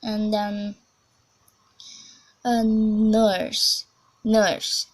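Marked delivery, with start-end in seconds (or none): 2.4-4.9 American "nurse", r-coloured shorter vowel; demonstrated American "nurse"; American accent. Shown as a demonstration. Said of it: "A short vowel".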